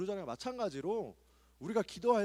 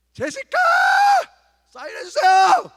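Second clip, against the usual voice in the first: shrieking high, much louder; screaming fan; 14 dB louder than usual. Retold or imitated. Young fan screams at an idol for a signature, shrill high yell. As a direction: scream her name across the crowd. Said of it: "고래고래 소리 질러야 됩니다".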